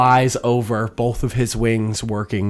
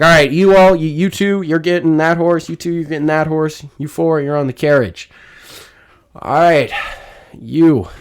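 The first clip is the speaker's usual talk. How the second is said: commanding shout; 7 semitones higher, 8 dB louder than usual. Acted. DM voicing NPC giving orders.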